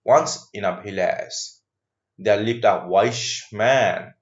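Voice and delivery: slow, deliberate classroom story reading; story read aloud. Acted. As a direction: read it word by word for learners. Rereads the story opening aloud.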